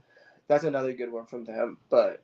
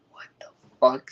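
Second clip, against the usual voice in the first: a retold what-the-fuck breathed out as a whisper; whispered disbelief; 3 dB louder than usual. Grower retelling his shock at male plants, whispered. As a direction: mutter it under your breath like you can't believe it.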